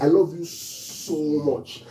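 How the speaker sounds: "I love you so much" slow, weight on "love"; slow emphatic love you. Shown as a demonstration. Preacher showing how magnitude of love sounds, slow. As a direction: lean slowly into "love". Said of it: "The extent".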